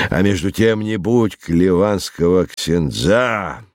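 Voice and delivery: slow, teasing lecture with a swooping tune; lightly voiced philosophising rogue. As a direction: draw out the endings like a showman. Voices Tyburtsiy lecturing the professor.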